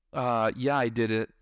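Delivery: imitating a let-down kid, low; dejected child. Child answering a dismissive parent about homework, dejected. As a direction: answer with mild deflation.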